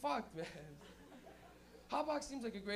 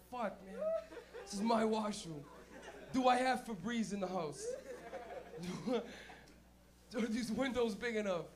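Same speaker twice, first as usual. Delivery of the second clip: inner panic. Retold or imitated. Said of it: "on the inside, he's like".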